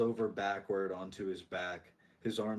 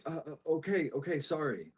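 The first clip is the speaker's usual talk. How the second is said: higher, hesitant, stumbling reply; shaky; 6 semitones higher than usual. Acted. Bystander told to come and help, shakily agreeing. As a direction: give in nervously with a shaky apology. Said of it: "He kinda shakily is like".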